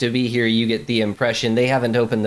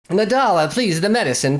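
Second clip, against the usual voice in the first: louder, higher call for the maid; 5 semitones higher, 4 dB louder than usual. Acted. Prima donna calling Nadala to bring the medicine, louder. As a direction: summon the maid, a little impatient.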